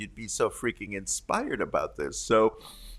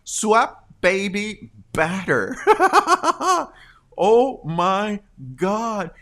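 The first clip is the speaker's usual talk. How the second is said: slow, higher, laughing through it; 6 semitones higher, 5 dB louder, slower than usual. Real, not acted. Host reading a viewer's comment slowly, laughing. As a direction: read it slowly, cracking up.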